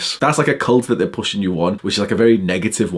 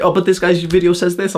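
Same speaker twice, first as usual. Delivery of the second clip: high, nasal-free mock whine of a nofap follower; mocking whiny follower; 7 semitones higher than usual. Quoting a fan who believes a YouTuber, mock high whine. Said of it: "they're like".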